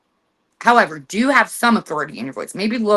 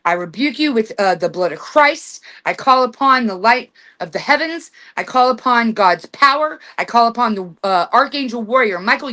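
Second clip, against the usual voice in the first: firm, raised invocation; solemn command, rebuking the dark spirit; authoritative rebuke; 3 semitones higher than usual. Shown as a demonstration. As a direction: call on heaven's power with full authority. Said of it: "You say with authority in your voice".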